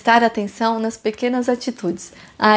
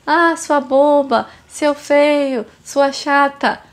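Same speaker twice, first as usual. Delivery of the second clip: put-on bratty child; 4 semitones higher, much slower than usual. Imitating rude child insulting parent.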